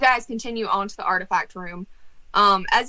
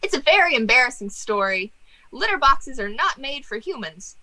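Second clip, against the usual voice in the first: higher, rueful ghost confession; embarrassed jester ghost; 6 semitones higher than usual. Acted. Jester ghost confessing his litter box death, higher. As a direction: admit it like a sheepish fool.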